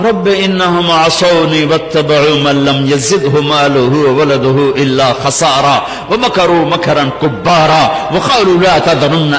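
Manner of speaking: slow, measured Arabic recitation; Quran recitation. Acted. Preacher reciting Noah's complaint to the Karachi audience, Quran recitation. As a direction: recite slowly, drawing out the long vowels.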